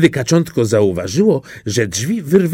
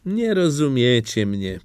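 sad duckling; 5 dB quieter than usual. Acted. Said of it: "powiedziało kaczątko".

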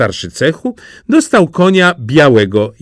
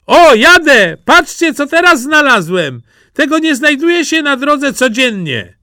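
high, bursting with glee; excited Jaś; 14 semitones higher, 4 dB louder than usual. Acted. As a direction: show off a treasure like a proud child. Jaś shows off a new find.

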